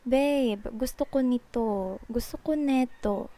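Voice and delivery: a touch of sweet, casual tenderness. Shown as a demonstration. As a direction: say it lightly to your boyfriend at dinner. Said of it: "maybe it's sweet".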